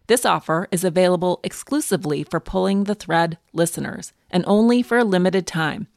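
upbeat sponsor read, steady and clear. Acted. Host reading a sleep sponsor ad, bright ad-read delivery. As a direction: sell the mattress pad to listeners.

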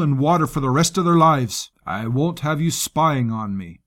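lightly voiced coarse soldier; gruff commander voice. Rusk voiced by narrator.

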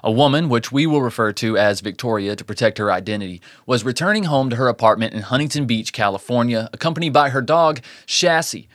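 measured storyteller read; true-crime narration. A narrator's reading. Host tells listeners of a Christmas Eve attack, measured narration. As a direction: narrate the case from a script.

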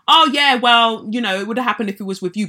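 breezy dismissive mimicry, rattled off fast; mocking nursery worker. Mimicking the nursery worker's brush-off, breezy mock. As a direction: toss it off like it's no big deal.

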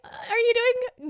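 mock-alarmed, pitch jumping high on what exactly; playing a startled astronomer, hammed up; incredulous objection. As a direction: hold on, what are you doing, rising in disbelief. Astronomers objecting, acted quote.

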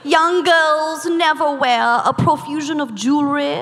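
prim mid-Atlantic etiquette reading; affected mid-Atlantic recitation; mid-Atlantic accent. Acted. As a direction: read it like a quote in a put-on mid-Atlantic accent. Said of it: "I think it's called medicated mid-Atlantic".

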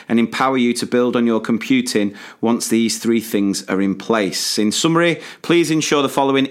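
even, scripted ad delivery; measured podcast advert voice; sponsor read. Acted. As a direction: read the promo clearly and evenly. Reads a sponsor message.

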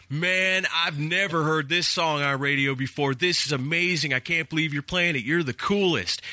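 excited caller. Retold or imitated. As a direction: imitate an amazed radio caller. Acting second excited caller.

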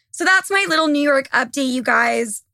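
strained, fading voice; losing voice. Real, not acted. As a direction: talk with a tired, worn voice. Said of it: "like, losing my voice".

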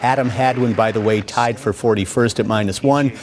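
lively highlight narration, calling each shot; golf commentator. Acted. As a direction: call the golf highlights like a broadcaster. Narrates golf highlights over footage.

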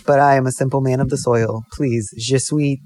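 simple French farmer, slow and earnest; badly faked French accent, words drawn out; mock French accent. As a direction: play a humble farmer with a hazy French accent. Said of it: "things with a French accent".

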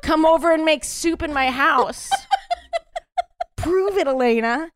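laughing through a flirty challenge; giggly teasing dare. Pretend. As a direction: dare her while cracking up.

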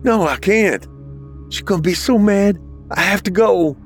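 put-on high, fretful kid voice; panicked. Panicked boy fears angry mother.

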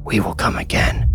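eerie unvoiced whisper of two small children; ghostly children whispering. A narrator's reading. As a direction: breathe it like ghost children close in his head. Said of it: "the boy said".

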